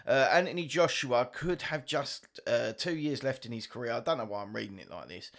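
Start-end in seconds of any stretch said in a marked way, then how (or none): 0.1-3.9 lightly put-on news narrator read; half-joking documentary voice; mock narrator. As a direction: read the headline like a self-important narrator. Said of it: "I'm trying to be like some sort of narrator".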